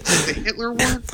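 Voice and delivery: small, high, soft voice; hushed high-pitched question; very quiet. Real, not acted. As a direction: ask it softly and high-pitched, almost to yourself. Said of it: "Why are you so quiet?".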